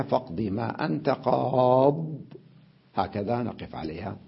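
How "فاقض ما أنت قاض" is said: قاض said slowly, stopping on a bare dad; slow pause reading of قاض; pausal form. Shown as a demonstration. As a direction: end on قاض without any ya. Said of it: "ونقف عليها".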